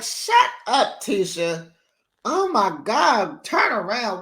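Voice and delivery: a shrill blurt of disbelief, then pleading; exasperated outburst. Retold or imitated. The vlogger yelling at Tisha on her TV, high squealing disbelief.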